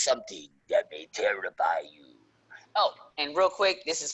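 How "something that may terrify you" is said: low, whispery spooky tease; playful horror-host whisper; mock-spooky tease. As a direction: drop into a hushed, creepy whisper. Teasing a scary costume reveal.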